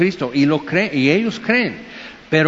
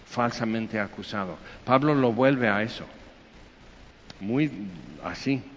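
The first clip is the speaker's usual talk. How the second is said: much softer, low earnest voice; soft intimate preaching; 3 semitones lower, 6 dB quieter than usual. Real, not acted. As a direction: draw them in, quietly. (voz muy baja y sincera)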